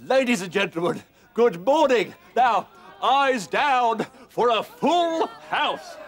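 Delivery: hammed-up bingo caller patter. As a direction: call it like a showman bingo host. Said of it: "if I could have a go at calling".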